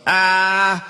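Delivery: high, drawn-out cry of pain; pained groan. Acted. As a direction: groan out in agony. Wounded man in pain.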